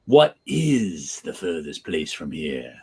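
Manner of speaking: slow, low question with "is" drawn out; pondering read, long weighted "is"; stress on IS. Shown as a demonstration. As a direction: lean on "is", let the rest fall away. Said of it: "putting emphasis on".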